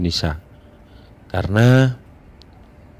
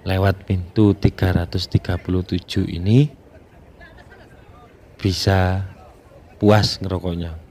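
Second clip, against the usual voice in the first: talking around a cigarette; cigarette in mouth. Real, not acted. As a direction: cigarette between the lips while speaking. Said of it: "saya sambil ngerokok".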